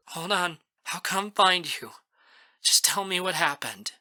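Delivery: steady a crying friend, pitched a bit high; concerned friend. A narrator's reading. Friend reassures sobbing caller by phone.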